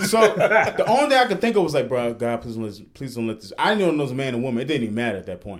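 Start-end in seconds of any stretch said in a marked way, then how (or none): 1.9-3.5 low, soft pleading under your breath; retold desperate prayer. Scared man praying to God as he walks, quiet retold plea. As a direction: quietly beg God, as if retelling it.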